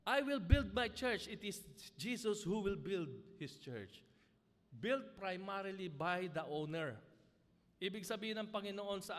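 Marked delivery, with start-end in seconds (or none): 0.1-4.1 proclaimed loudly. Shown as a demonstration. Preacher repeating the verse to the congregation, loud proclamation. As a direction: ring it out like a promise from the pulpit.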